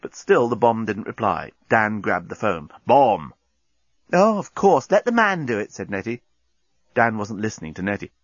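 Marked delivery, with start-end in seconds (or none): 2.9-3.3 stern call. Acted. Dan grabs phone, calls. 4.1-5.7 sarcastic. Acted. Nettie sarcastic remark.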